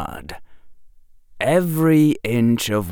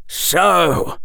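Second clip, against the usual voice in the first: hearty, higher-pitched dad voice; a jovial professor father; cheerful father; 7 semitones higher than usual. Acted. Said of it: "said his father as he came striding up".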